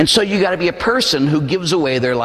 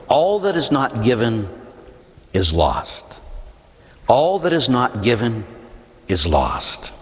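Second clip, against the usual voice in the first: solemn quotation; 3 semitones lower, slower than usual. Acted. Movie's closing line quoted, repeated.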